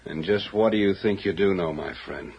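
put-on plain voice, threatening, the accent dropped; dropped accent, menacing. Crook drops the fake accent to threaten the visitor. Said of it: "you didn't say that with any accent".

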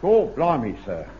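put-on Cockney accent. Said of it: "I don't speak with a Cockney accent".

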